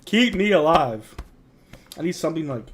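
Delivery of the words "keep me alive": slow, loud, drawn-out plea through a yawn; groaning to stay awake; yawning words. Real, not acted. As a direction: stretch it out mid-yawn. Sleepy viewer pleading through yawn.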